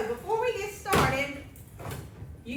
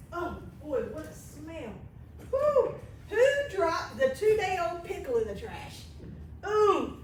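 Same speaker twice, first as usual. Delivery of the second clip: mock disgust. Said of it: "I'm only kidding".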